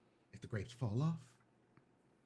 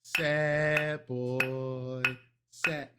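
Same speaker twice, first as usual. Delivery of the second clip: mock dog command; 5 dB louder, much slower than usual.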